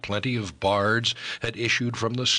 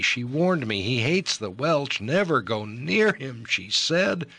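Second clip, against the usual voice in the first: much higher, slow, impassioned pleading; frantic young lover; 4 semitones higher, slower than usual. Acted. Ellis pleads with Eliud about the girl he loves, frantic and impassioned. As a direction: pour it out like a man lovesick and desperate. Ellis pours out his love.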